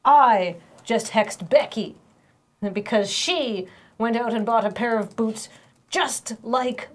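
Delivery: slow, drawn-out witch voice; witchy voice. Acted. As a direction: savor each word like a scheming witch. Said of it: "you're sort of doing a witchy voice".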